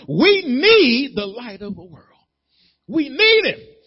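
high, loud preaching push; preaching at full force. Acted. Preacher urging his church that they need the light. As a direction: drive it home to the congregation.

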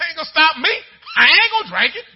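high, loud, laughing taunt; laughing defiance. Retold or imitated. Friend laughing back at the preacher, loud and high.

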